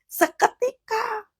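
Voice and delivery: seketika stretched slow, high and soft; hushed, high seketika; drawn out. Real, not acted. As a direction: linger on seketika in awe. Stressing the instant miracle.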